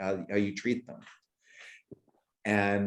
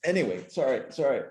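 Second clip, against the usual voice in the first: choked up; faster than usual. Real, not acted. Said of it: "I'm actually getting choked up".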